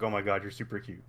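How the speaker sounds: half-laughing gush over something cute; play-gush at an adorable cat character; mock gushing.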